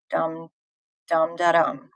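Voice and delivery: "dum, da, dum" as spaced beats; stressed beat. Shown as a demonstration. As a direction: tap out "dum" as the sharp syllable. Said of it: "make the second syllable sharp".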